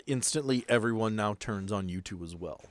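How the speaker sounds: usual speaking voice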